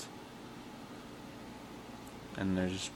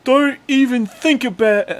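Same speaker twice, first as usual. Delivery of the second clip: high, loud stab at a Welsh accent; badly faked Welsh, loud and high; attempted Welsh accent; 14 dB louder than usual. Shown as a demonstration. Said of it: "Try doing a Welsh accent".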